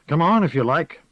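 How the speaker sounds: lightly voiced old gossip; a hint of a sly old woman; old village witch. Witch Moss speaks.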